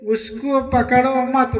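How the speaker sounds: उसको पकड़ो मत as one phrase, then a break; group मत with पकड़ो, meaning don't catch; pause after मत. Shown as a demonstration. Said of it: "मत पे तनिका हलंत लगा दिया".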